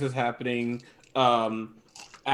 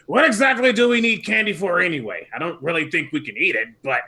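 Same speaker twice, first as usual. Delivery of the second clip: raised, lively character voice; 4 semitones higher, 5 dB louder than usual. Acted. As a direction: play the puzzled robot, higher. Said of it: "He's like".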